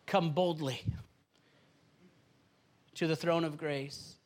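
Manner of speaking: hushed devotional reading. Acted. Reads scripture verse aloud.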